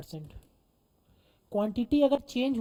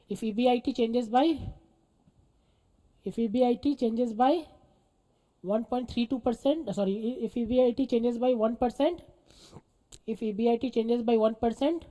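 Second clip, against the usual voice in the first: slow, evenly spaced dictation; phrase by phrase, pausing for writers; much slower than usual. Real, not acted. Teacher dictating leverage notes to students, slow dictation.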